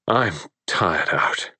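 slow, weary and fretful; tired husband complaining slowly. Acted. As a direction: drag the words out like a tired complaint. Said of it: "he said fretfully".

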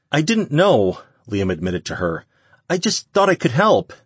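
put-on high, timid young voice; young man voice. A narrator's reading. Liam voiced as character.

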